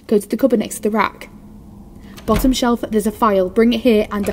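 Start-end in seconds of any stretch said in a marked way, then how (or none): none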